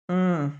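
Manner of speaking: short grunted "hmm"; a small grunt in reply. A narrator's reading. Brother reacting to his sister's plight, grunted. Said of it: "grunted Jim".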